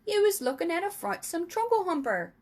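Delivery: high, loud, emphatic giant; worked-up giant, high and loud; BFG. A narrator's reading.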